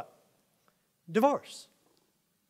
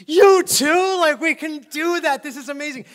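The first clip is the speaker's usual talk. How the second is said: much higher and louder, hammed-up amazement; mock astonishment; 8 semitones higher, 15 dB louder than usual. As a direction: squeal like it's unbelievable. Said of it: "And they're like".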